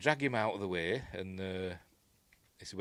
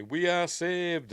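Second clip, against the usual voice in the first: slow mock alien thanks; 9 semitones higher, 5 dB louder, slower than usual. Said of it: "they say".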